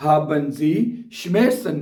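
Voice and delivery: very slow, every German word spelled out for learners; slow dictation. Shown as a demonstration. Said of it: "वो आपसे पूछ सकता है".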